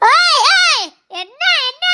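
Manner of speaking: high, loud challenge; indignant retort. Acted. Snapping back at the boy's accusation.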